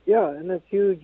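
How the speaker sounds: faint voice, phone away from mouth; talking too far from the phone; phone held away. Real, not acted. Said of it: "We, we don't hear you too well".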